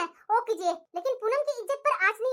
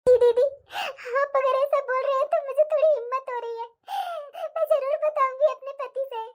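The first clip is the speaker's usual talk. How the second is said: sobbing while agreeing; tearful. Acted. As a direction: speak through tears, finding a little courage. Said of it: "रो मत तुम". (रोते हुए, हिम्मत जुटाकर)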